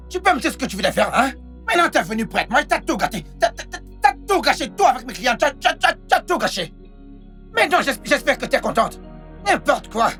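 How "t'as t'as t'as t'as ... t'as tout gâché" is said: high, stuttering reproach; exasperated, pitched-up stammering blame; angry accusation. Acted. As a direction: hammer the repeated first words in agitation. Accusing in an acted quarrel.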